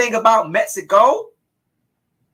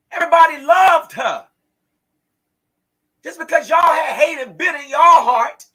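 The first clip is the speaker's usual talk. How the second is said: furious shout; 4 semitones higher than usual. Real, not acted. Mother shouting at her daughter's friends, tearful fury. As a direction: shout it through tears of rage.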